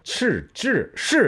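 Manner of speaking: 치, 찌, 시 each pronounced separately as a curled-tongue Chinese consonant; Chinese retroflex sounds. Shown as a demonstration. YouTuber showing viewers sounds Korean lacks, 치, 찌, 시 as Chinese retroflexes. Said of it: "중국말이 건설음이라고 한국에 없는 발음".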